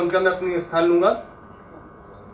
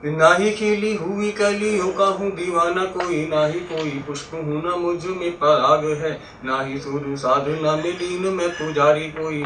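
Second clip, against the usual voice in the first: slow, lilting verse recitation; half-chanted stage poem; poetry recitation; slower than usual. Acted. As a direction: recite it in drawn-out metrical lines.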